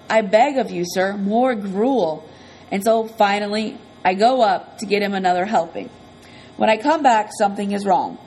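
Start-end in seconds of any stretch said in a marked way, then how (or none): 0.1-2.2 slow, drawn-out mock beggar's plea; begging Oliver Twist plea. Boy begging the narrator for more gruel, slow mock plea. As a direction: plead for more gruel like a hungry orphan. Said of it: "he always goes".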